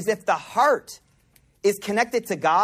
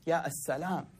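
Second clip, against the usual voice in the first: very soft, hushed repeated call to God; heartfelt invocation; 3 semitones lower, 11 dB quieter than usual. Shown as a demonstration. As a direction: repeat it softly, like a private prayer. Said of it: "Repeat it with your heart".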